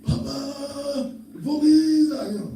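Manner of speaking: put-on high, drawn-out childish wail; loud mock-tearful call; imitated crying grandkids. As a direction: mimic a panicked child crying down the phone. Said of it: "crying, calling me".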